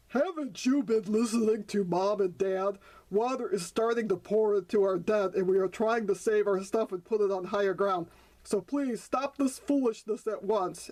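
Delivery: stern grandfather frog scolding. Acted. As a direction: scold the youngsters. Grandfather scolds young frogs.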